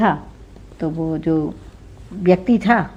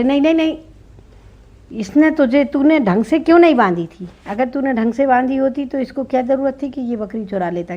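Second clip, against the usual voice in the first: scolding king; 5 semitones higher than usual. Acted. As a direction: lecture him like a silly king. Foolish king scolds the victim.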